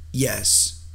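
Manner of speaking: lightly voiced frightened boy; nervous boy. A narrator's reading. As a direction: blurt out a nervous assent. Frightened boy forces out agreement.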